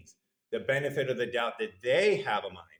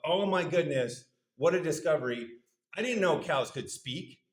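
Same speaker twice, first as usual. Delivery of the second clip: mock amazement; 3 semitones higher than usual. Vet marvels privately at a talking cow, mock amazement. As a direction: act floored by a discovery, lightly. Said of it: "you are absolutely floored".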